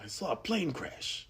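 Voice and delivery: soft, high put-on character voice; Natasha Lyonne's Russian Doll character. Actress as her series character in the movie, soft impression. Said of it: "her Russian doll character".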